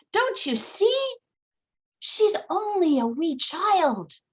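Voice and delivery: high, loud pleading voice; Long John pleading. Acted.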